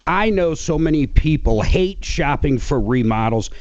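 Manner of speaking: conversational radio endorsement. Real, not acted. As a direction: plug it like a radio host. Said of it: "Got that radio voice".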